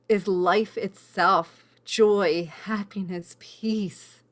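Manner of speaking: slow, swelling, then fading to a whisper; moved, voice thinning to a breath; getting emotional. Real, not acted. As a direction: let the feeling well up and break to a whisper. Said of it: "I'm getting very emotional".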